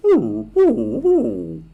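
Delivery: high loud whining ooh; squealing high mock dog noises; dog whimper. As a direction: imitate a pet dog whining. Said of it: "as it goes".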